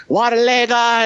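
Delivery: high-pitched retold holler; retold yelling. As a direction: call out across a distance, retelling it. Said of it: "I'm yelling at him".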